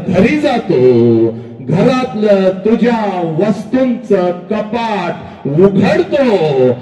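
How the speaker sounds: slow, drawn-out declamation; impassioned preaching. Acted. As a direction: stretch each phrase out with swelling force. Impassioned oratory over father's sacrifice.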